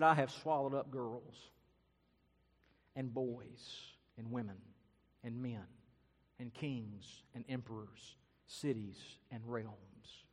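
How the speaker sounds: just say it, without boast or regret; measured, impassive roll call with long gaps; matter-of-fact lion. Acted. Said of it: "He just said it".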